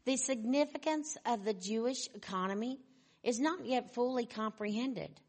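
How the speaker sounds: measured, emphatic reading with weighty pauses; solemn quote reading. Acted. Preacher reading a promise to the congregation, solemn and measured. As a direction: read it out as lofty proclamation.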